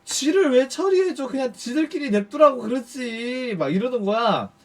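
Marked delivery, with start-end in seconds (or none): 0.0-3.6 high-pitched retold scolding from coworkers; imitated fuss. Women at his shop scold him over the dead rat, fussing. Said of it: "누나들이 막 난리가 난 거야".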